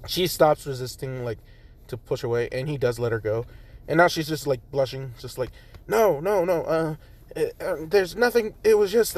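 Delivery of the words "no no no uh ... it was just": higher, stumbling denial; flustered stammer. Acted. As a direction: caught out and stammering. Jiro blushing, hiding something.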